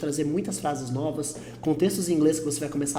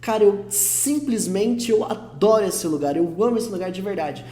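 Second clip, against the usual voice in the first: heartfelt. Shown as a demonstration. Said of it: "Você tá colocando mais sentimento".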